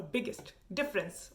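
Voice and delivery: BIGGEST and DIFFERENCE each set apart and clearly articulated; "biggest difference" spoken word by word; coherent enunciation. Shown as a demonstration. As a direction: enunciate "biggest difference" as separate, careful words. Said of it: "we just speak all the words very, very coherently".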